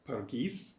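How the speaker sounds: "Pargis" with the weight on "-gis", ending on a rise; stress on second syllable. Shown as a demonstration. Lecturer correcting the title's stress, stress on "-gis". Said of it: "stressed on the second syllable".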